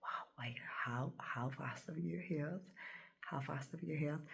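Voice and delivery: hushed, mildly stunned quote; retold shell shock. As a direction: imitate a nurse's quiet, stunned disbelief. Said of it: "like, shell shocked".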